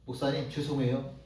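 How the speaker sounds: low, soft apologetic murmur; a meek believer apologizing, lightly voiced; timid apology. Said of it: "뭐라고 얘기를 하냐면". (소심하게 낮게 사과하듯)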